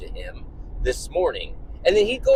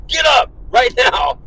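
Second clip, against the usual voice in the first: loud, high, drawn-out parental yell; 7 semitones higher, 6 dB louder than usual. Retold or imitated. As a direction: re-enact a dad who has lost it, yelling an order. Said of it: "You know, I started yelling".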